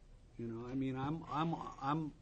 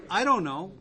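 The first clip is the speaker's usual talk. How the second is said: laughing; 3 semitones higher, 8 dB louder than usual. Retold or imitated. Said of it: "So I said".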